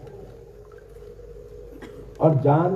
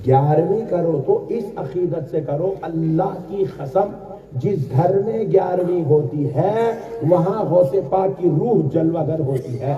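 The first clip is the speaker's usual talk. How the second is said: slow, lilting sermon delivery; half-sung pious appeal; devotional preaching; 3 semitones lower, slower than usual. Acted. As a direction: draw the words out reverently.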